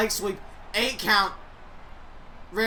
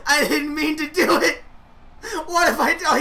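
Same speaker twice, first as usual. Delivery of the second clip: mock distraught; 3 semitones higher than usual. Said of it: "Orton's like".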